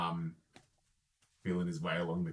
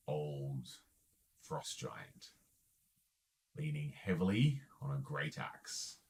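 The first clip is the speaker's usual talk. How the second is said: game master narration; 3 semitones lower, 5 dB quieter than usual. A narrator's reading. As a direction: lower the voice to reveal the scene. Game master describes scene.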